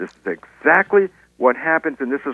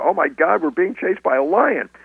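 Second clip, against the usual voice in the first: acted, worked-up, high, excited voice; 5 semitones higher than usual. Acting out a second caller on the phone chased by a lion: more excited voice. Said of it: "there's a more excited voice going".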